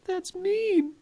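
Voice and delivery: gasp, then very high mock-tearful whimper; hurt little kid. Bullied kid on the playground, high hammed-up hurt. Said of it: "couple of kiddies arguing on the playground".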